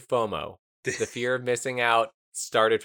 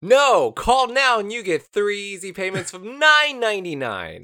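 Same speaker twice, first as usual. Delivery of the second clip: high, loud, laughing pitchman; home shopping host; 8 semitones higher, 6 dB louder than usual. Pretend. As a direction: shout the bargain, cracking up. Mock infomercial pitch.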